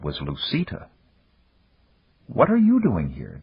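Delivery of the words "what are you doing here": startled question, pitched up; blurted. A narrator's reading. Dan finds an unexpected woman in his room, blurted question. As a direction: blurt it out higher in surprise. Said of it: "Dan blurted".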